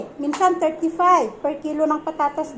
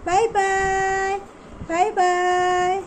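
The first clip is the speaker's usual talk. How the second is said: put-on lightly higher baby-talk goodbye; voicing the baby; 4 semitones higher, much slower than usual. Mother saying goodbye for her baby, light baby talk. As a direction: speak the baby's goodbye for him. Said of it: "You tell".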